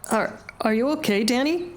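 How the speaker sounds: put-on high, stammering worried boy; nervously checking on a friend; apprehensive. A narrator's reading. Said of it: "asks his wounded leader apprehensively".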